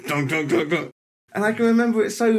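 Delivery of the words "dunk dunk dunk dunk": stomping sounds. Retold or imitated. Stamping back up again.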